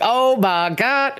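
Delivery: high, slow, drawn-out gasp of shock; stunned disbelief. Retold or imitated. Telling a friend about the show, stunned disbelief. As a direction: let the jaw drop on every word. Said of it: "I was like".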